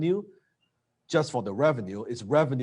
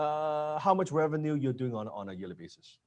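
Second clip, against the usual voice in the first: hesitant ask trailing off softer; a scared rep mumbling the money question; timid rep apologising for asking revenue; nervous closer; 5 dB quieter than usual. Retold or imitated. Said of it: "I've seen closers, they talk like that".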